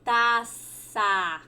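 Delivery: taça said as Spanish taza, stress on the first syllable; Spanish pronunciation. Shown as a demonstration. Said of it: "copa em espanhol significa". (taça pronunciado como o espanhol taza)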